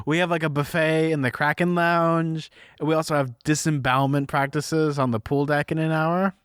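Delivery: lightly faked Aussie captain; half-hearted Australian cruise announcement; Australian accent. Captain announcing activities to passengers, mock Australian accent. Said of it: "in a very thick Australian accent".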